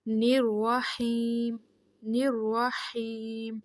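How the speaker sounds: الرحیم with the ی held two seconds; long ya madd. Shown as a demonstration. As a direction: stretch the رحی in الرحیم. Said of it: "دو second ہا کو پڑھنا ہے". (الرحیم میں یا مدہ دو سیکنڈ)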